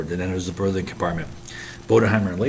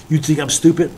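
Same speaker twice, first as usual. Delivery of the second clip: angry outburst; 8 semitones higher, 7 dB louder than usual. Acted. Officer loses temper at sailors.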